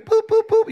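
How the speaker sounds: high chirpy beeps; beeping pin pad. Retold or imitated. Comic at the gas pump imitating the keypad beeping, high chirpy beeps.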